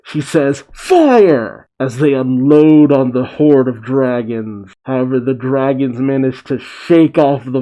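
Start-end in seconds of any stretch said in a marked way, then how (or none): 0.7-1.7 high, loud shouted order; shouted battle command. A narrator's reading. Fleet commander to her gunners, shouted command.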